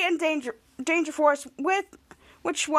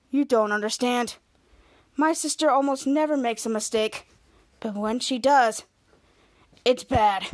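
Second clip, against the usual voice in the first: low mock ominous warning; 3 semitones lower than usual. Voicing Miles' ominous warning.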